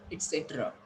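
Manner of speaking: "Et cetera" with a close first vowel, softly falling; "Et cetera" as a quiet model answer; model pronunciation. Shown as a demonstration. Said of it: "How you are going to call it?".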